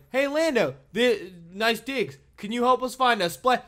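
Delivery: panicked hero voice. Retold or imitated. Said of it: "they meet Lando and they're like".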